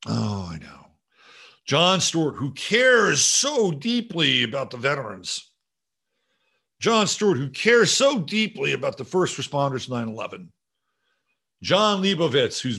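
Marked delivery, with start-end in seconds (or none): 1.7-10.5 sarcastic praise. Acted. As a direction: draw out the praise with heavy sarcasm. Mocking praise of Jon Stewart.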